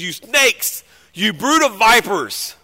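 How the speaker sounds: acted angry name-calling; going off on them. Preacher voicing Jesus to the Pharisees, angry denunciation. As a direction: hurl the insults forcefully. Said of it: "he goes off on the Pharisees".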